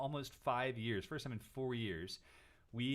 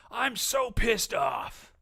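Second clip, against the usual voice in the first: high, slow whiny mimic of an angry client; mock whiny customer; 10 semitones higher, 9 dB louder, much slower than usual. Host mocking a customer's angry Facebook post, whiny and high. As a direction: drag it out like a sulking customer.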